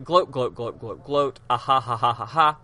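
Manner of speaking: chanted mock gloat into a fake laugh; mega gloating. Villain crowing over the supposedly won case, mock gloating. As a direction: crow like a cartoon villain, hammed up. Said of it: "He's mega gloating".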